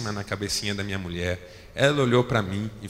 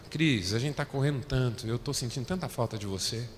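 softer, sincere admission; tender confession; 6 dB quieter than usual. Retold or imitated. Husband telling his wife gently he misses her. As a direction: quietly admit you miss her.

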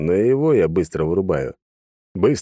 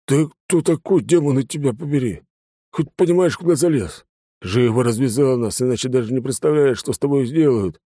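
angry bound thug; 6 semitones higher than usual. A narrator's reading. Tied-up thug threatening his captor, angry higher voice. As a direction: wake groggy then threaten hard.

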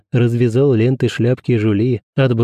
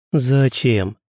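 tender. A narrator's reading. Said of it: "самым нежным и сладким голосом".

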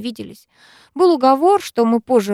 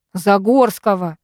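barking; 4 dB louder, slower than usual. Acted. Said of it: "рявкнул Вик".

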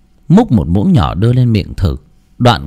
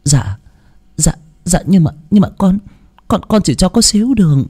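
high, stammering protest; 10 semitones higher, faster than usual. A narrator's reading. Daughter-in-law stammers back at the mother-in-law. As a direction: stutter out the excuse. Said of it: "Nguyệt lắp bắp".

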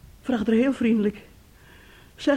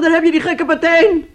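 mocking crowd; 7 semitones higher, 9 dB louder than usual. Crowd mocking the boy, retold.

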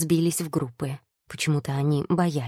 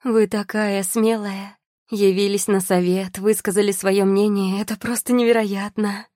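high, loud, gushing delight; cartoon princess; 5 semitones higher, 5 dB louder than usual. A narrator's reading. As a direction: gush like an excited society lady.

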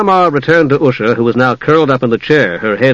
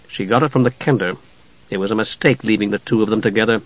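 confidential muttering; 3 semitones lower, 6 dB quieter than usual. Acted. Private conference, Tas asleep.

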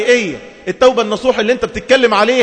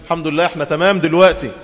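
lower, dismissive mock of a complacent believer; mock smug self-praise; 6 semitones lower, faster than usual. Preacher mocking a woman proud of her repentance, lower and self-satisfied. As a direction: lightly voice someone pleased with herself. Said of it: "ويبتدي يقول".

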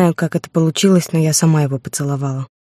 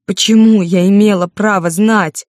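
higher and louder, a slow, strained cry; breaking into a shout; 5 semitones higher, 5 dB louder than usual. Acted. Heroine shouting at Artur while hitting him, a slow strained cry. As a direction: drag the question out of her in a shout. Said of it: "срывалась на крик".

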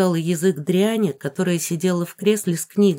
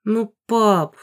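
groaning; 4 semitones higher, 3 dB louder than usual. A narrator's reading. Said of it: "простонала я".

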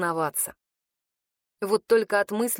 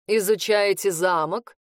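polite small talk; 3 dB louder, slower than usual. Acted. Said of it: "светским тоном поинтересовался".

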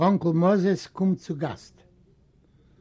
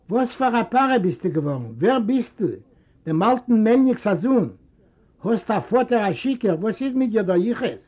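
higher, raised voices; lightly voiced family quarrel; quarrelling father and son; 4 semitones higher than usual. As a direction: trade barbs. Father and son trade retorts.

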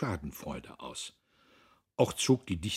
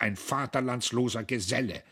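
higher, contemptuous insult; scornful snort; 6 semitones higher, 4 dB louder than usual. A narrator's reading. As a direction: sneer it out with disgust. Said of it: "schnaubte Dietrich".

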